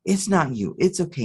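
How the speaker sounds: gently reassuring, apologetic mom; mild tender reassurance; comforting mother. Retold or imitated. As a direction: soothe a frightened child, lightly acted. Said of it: "she's comforting".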